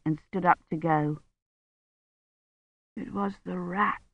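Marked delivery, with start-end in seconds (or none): 2.9-4.0 much softer, barely voiced delirious mumble; feverish murmur. A narrator's reading. Sick Badri rambling in his bed, a feverish murmur. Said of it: "Badri murmured".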